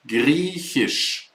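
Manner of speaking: Griechisch with the ch soft and clear; teacher demo of Griechisch; model pronunciation. Shown as a demonstration. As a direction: say Griechisch clearly for learners to repeat. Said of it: "Greek in German is Griechisch".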